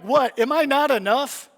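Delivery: jesting hurt. Retold or imitated. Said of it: "I say that in jest".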